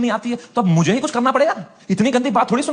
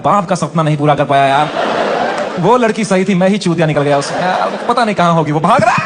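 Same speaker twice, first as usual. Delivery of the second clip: mock inner wail; 5 semitones lower, 4 dB louder than usual. Man voicing his hidden heartbreak, hammed-up anguished wail. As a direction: lower pitch, louder, hammed-up despair. Men's inner despair voiced.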